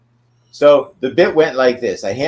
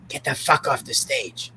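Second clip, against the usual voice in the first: retold offstage order; 6 semitones higher, 6 dB quieter than usual. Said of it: "I hear from behind".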